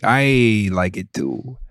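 half-hearted fake Irish accent; bad Irish accent. Shown as a demonstration. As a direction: put on a hammy Irish brogue like a pirate. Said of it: "I was doing my Irish accent".

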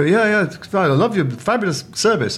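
high, gushing fan voice; starstruck. Retold or imitated. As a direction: imitate yourself babbling at your sporting hero. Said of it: "starstruck 'cause I love tennis players".

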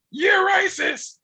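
high-pitched drawn-out mock accusation; mock outcry. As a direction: cry it out high and stretched, mimicking a complainer. Mocks people crying racism.

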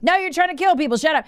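high, whiny mock of an angry listener; imitating an outraged fan. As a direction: sneer out the caller's accusation. Mocking angry listeners in audience.

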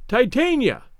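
high piped call; piping. A narrator's reading. Moira calls Isabel from the garden, piping high. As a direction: sing the name out high. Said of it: "piped Moira".

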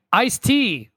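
high-pitched exclamation of a name; exclaimed. Acted. Reading own movie notes aloud, exclaimed. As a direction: read it with exclamation marks. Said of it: "with three exclamation marks".

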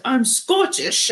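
drawn-out, half-hearted Scottish imitation; mock Scottish, stretched out; bad Scottish accent. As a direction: put on a clumsy Scottish accent, slowly. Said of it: "I know that was a terrible accent".

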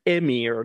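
emir opened with an E sound; E at start. Shown as a demonstration. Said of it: "spell it with a e".

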